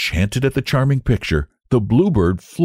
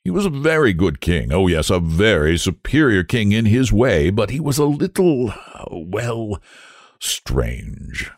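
tactful hesitation; 2 semitones higher than usual. Acted. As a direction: grope reluctantly for a polite word. Minister searches for tactful word.

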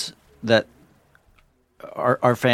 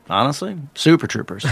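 Kevin Spacey impression. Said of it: "That's a good impression".

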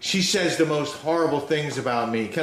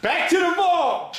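announcer call; 13 semitones higher than usual. Acted. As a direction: announce it like a jingle. Announcing the segment.

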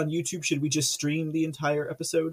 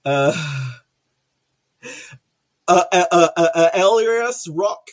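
1 struggling name; 8 dB louder than usual. Real, not acted. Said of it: "I couldn't do it".

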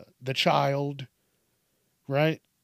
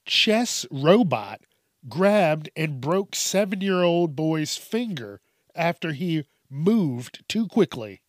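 reading a headline; 3 dB louder, slower than usual. Shown as a demonstration. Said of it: "Listen to this".

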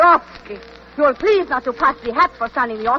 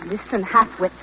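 put-on fast, impatient Russian-accented order; quick irritated order; snapping; 5 semitones lower, faster than usual. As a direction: snap at the driver. Snapping at cab driver.

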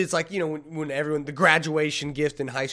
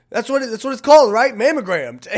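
loud fast insisting; insistent; 8 semitones higher, 11 dB louder than usual. Retold or imitated. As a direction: insist it loudly and quickly. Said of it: "And she goes".

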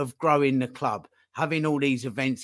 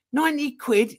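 mock outrage at price; 11 semitones higher, 3 dB louder than usual. Fan outraged at ticket price.

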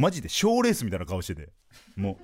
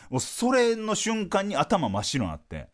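normal talking voice

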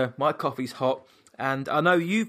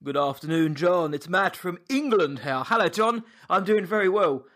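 mock posh English villain voice, slightly higher; 3 semitones higher than usual. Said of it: "that's my posh English villainous voice".

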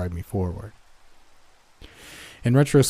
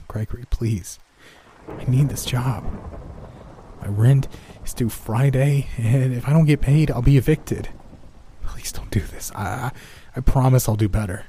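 voice cracking plea; 4 semitones higher than usual. Acted. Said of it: "My voice cracked as I tried to plead".

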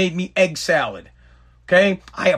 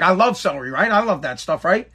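fake enthusiasm; 3 semitones lower than usual. Shown as a demonstration. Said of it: "I'm gonna say it just like that".

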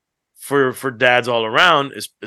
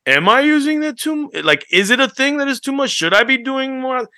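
mock worried inner voice, pitched up; anxious self-doubt; 11 semitones higher than usual. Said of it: "you'll start to second guess".

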